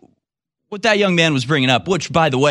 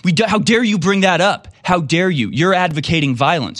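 mocking outraged crowd; 5 semitones higher than usual. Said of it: "And they're like".

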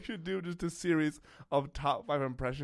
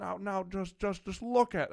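much higher stammering voice; Jimmy Stewart impression; 7 semitones higher than usual. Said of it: "I'm back to Jimmy Stewart".

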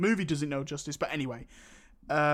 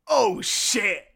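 mock dismay; 3 semitones higher, 6 dB louder, slower than usual. Acts Superman's reaction to caught punch.

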